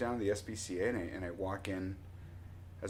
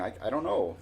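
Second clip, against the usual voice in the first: near-usual pitch, mock mouthing to someone far off; mouthed message; 3 semitones higher than usual. Explaining to brother in the pickup, lightly imitated mouthing. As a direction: lightly act out mouthing the words. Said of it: "I'm mouthing".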